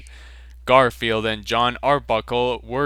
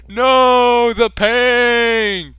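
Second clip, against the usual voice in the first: much higher, loud hammed-up cry; cry of pain; 12 semitones higher, 7 dB louder, much slower than usual. Charlie Sheen being waterboarded, hammed-up cry of pain. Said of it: "cried out Charlie Sheen".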